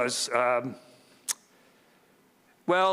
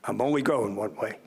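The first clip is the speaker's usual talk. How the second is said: mom's Philly accent, lightly imitated. Mom answering her son at the wheel, in a light Philly accent. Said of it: "She said in that Philly accent".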